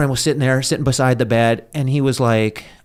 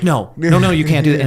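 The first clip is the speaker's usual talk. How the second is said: pleading; 4 semitones higher, 5 dB louder than usual. Retold or imitated. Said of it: "I started, like, pleading".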